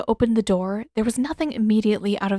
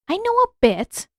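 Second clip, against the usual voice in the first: put-on high, hesitant old woman's voice; a lightly voiced elder, unsure; doubtful old healer; 12 semitones higher, 4 dB louder than usual. A narrator's reading. Yugoda answering Katara, voiced as a doubtful old woman. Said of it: "Yugoda said doubtfully".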